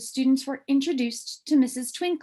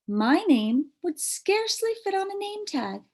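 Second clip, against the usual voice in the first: teacher voice; 9 semitones higher than usual. Acted.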